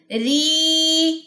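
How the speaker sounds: ری with the ee flowing and fading into air; correct madd. Shown as a demonstration. Teacher shows the right vanishing ee. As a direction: let ری glide away smoothly. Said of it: "بس آواز غائب".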